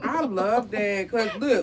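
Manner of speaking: slow words through a laugh. Real, not acted. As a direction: talk while still laughing. Laughing along with the couple.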